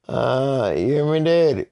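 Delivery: high, loud call; mock calling out. Kid on the intercom to his daddy, mock loud call.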